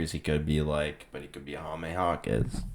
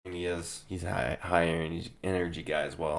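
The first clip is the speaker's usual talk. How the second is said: hoarse, strained voice; losing voice. Real, not acted. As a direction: voice giving out, hoarse. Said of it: "I'm losing my voice".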